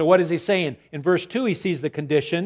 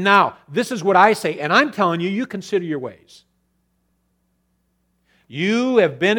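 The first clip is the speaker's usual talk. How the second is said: loud, higher preaching at full force; fervent preaching; 4 semitones higher, 5 dB louder than usual. Acted. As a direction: drive the rebuke home. Preaching God's rebuke at full force.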